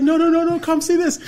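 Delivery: high, loud, rapid no no no; insistent urging. Retold or imitated. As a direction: pull them outside now. Friend insists urgently.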